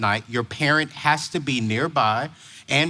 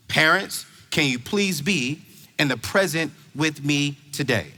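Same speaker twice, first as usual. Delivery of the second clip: a measured, earnest request; gentle plea. Acted. Same plea, repeated gently.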